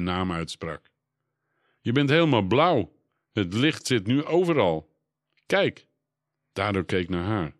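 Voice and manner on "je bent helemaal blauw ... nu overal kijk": higher, louder excited exclaiming; amazed. Acted. Tara shows Dado he glows blue, excited and higher. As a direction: marvel out loud at the glow.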